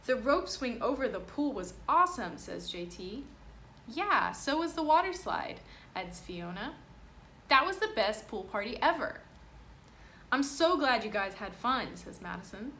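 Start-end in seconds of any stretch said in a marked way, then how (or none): 0.1-2.4 put-on higher, louder gushing kid; excited kid. Kids rave about party. 3.9-5.6 high, loud eager chime-in; girl chiming in about the slide; excited kid. Acted. Kid adds enthusiastically. 7.5-12.0 higher, louder happy chatter; cheerful kid. Acted. Kids chatting about party.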